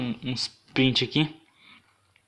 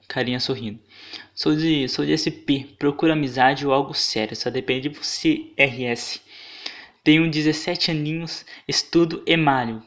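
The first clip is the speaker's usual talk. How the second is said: leitura debochada. Retold or imitated. Lê descrição em voz fina.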